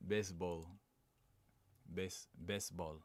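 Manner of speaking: "baseball" tried in a Dominican accent; tentative Dominican accent. Shown as a demonstration. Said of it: "Oh, that's Dominican".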